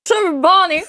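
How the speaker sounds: cheeks stuffed full. Real, not acted. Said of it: "her Southern's really come out".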